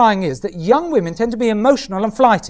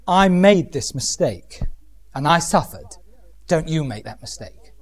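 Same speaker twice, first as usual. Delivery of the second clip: put-on earnest older woman; 4 semitones lower than usual. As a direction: share a hard lesson gently. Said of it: "older women can actually say".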